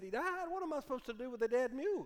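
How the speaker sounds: jumps up high in disbelief, then hurries on; the buyer can't believe his mule is dead; shocked disbelief. Acted. City slicker to farmer, high shocked disbelief.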